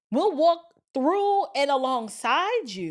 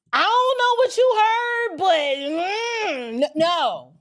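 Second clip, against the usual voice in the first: put-on girlfriend Shanice shutting her down; 5 semitones higher, 5 dB louder than usual. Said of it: "she'd be like".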